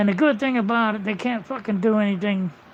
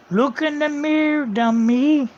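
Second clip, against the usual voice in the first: louder, higher jab at her; telling off the woman in the video, louder; scornful retort; 5 semitones higher, 4 dB louder, slower than usual. Real, not acted. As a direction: talk down to her with contempt.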